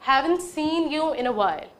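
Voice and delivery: very slow, each word separate; slow model sentence. Shown as a demonstration. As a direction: lay the sentence out slowly. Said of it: "next sentence". (बहुत धीमे, हर शब्द अलग)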